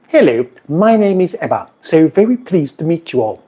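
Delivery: a hint of a prim lady saying hello; impression of a co-host. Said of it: "You're always doing impressions of me".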